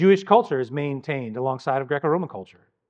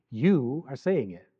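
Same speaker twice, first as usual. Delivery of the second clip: slow, irreverent; 4 dB quieter, slower than usual. Shown as a demonstration. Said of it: "somewhat irreverently".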